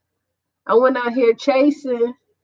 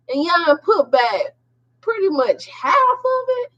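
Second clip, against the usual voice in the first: angry; 2 semitones higher, slower than usual. Retold or imitated. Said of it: "I was angry".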